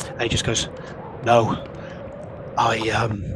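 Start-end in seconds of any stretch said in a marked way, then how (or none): 1.2-3.2 raised voice over a howling wind; shouting to be heard in the wind. Acted. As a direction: call it out over the storm. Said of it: "he's having to shout above that wind".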